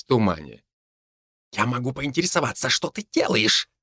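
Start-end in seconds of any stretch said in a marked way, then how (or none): 1.5-3.7 grumbling. A narrator's reading. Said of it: "недовольно проворчал Павел".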